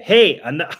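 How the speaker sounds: a loud laughing hey, stop that; laughing scold. Real, not acted. A streamer laughing as she scolds her dog. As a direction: cut the dog off, half laughing.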